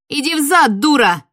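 put-on girl shielding her sister, yelling furiously. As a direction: bellow it at the witch. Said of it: "заорала я".

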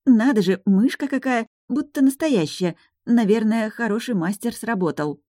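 overdoing delight at a toy; forced cheerful. Acted. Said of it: "Я старалась говорить жизнерадостно". (наигранно восторженно, высоко)

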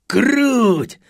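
high loud cheer; jubilant cry. A narrator's reading. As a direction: exult. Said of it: "заликовал Фред".

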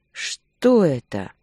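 slow, insistent demand, each word weighted; a slow, forceful, pressing ask; pressing question. A narrator's reading. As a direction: press her hard for an answer. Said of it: "ещё раз спросил с нажимом".

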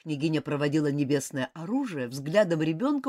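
ordinary delivery, nothing marked

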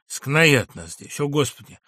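patient hurling himself at the door; hoarse furious cry. Acted. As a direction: choke out a desperate scream. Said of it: "крикнул он сиплым голосом".

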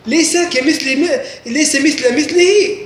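slow, word by word reading; teacher spelling out the literal meaning. Shown as a demonstration. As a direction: spell out ليس مثل مثله slowly, each word apart. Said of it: "إذا مثل مثل".

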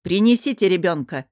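loud call to the retinue. Acted. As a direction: shout the order across the room. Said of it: "крикнула своей свите". (громко, окликая свиту)

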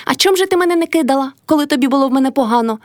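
high, fast squeal; shrill up into a quick squeak of outrage. A narrator's reading. Old Kaidashykha squealing at Motria. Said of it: "пищала Кайдашиха".

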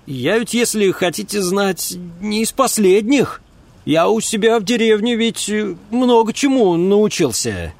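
put-on eager country boy talking himself up; a hint of a cocky village lad; eager young fellow. Narrator voices Ulm.

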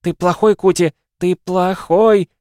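high, loud, ranting mother; yelling. A narrator's reading. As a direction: hurl accusations at the son at full pitch. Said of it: "заорала его мать". (истошно орёт на сына)

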